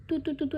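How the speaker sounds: put-on तू repeated as a childish lisp; lisping tu sounds. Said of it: "ऐसे करके बोलती थी".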